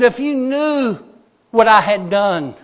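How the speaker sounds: high, loud, pleading cry; imitated tearful outburst, no real sobs; tearful confession. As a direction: act out a man breaking down. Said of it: "he started crying".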